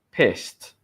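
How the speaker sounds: "Pissed" repeated with a clear T ending; final T sound. Shown as a demonstration. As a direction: land "Pissed" on S plus T. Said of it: "have the T sound".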